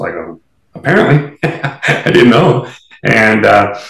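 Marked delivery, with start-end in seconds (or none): 0.7-1.4 higher and louder, mock-innocent; wry quip. Retelling her reply to Joe. 1.4-2.7 slow, laughing through the words. Real, not acted. Laughing after her quip.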